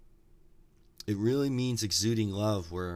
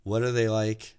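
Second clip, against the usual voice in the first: yelling back; 4 dB louder than usual. Acted. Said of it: "the old guy yells back".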